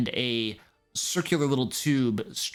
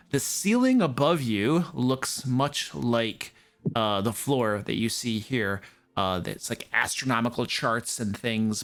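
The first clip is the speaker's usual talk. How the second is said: game master narration. Acted. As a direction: paint the scene for the party. Game master scene setting.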